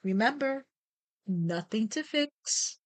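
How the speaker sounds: measured meditation guide, pausing between phrases; guided meditation. Real, not acted. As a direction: lead listeners through breath and body awareness, unhurried.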